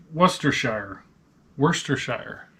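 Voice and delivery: "Worcestershire" with a full "shire" like "fire"; shire ending. Shown as a demonstration. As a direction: sound out "Worcestershire" as WUS-ter-shire. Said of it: "they say sheer".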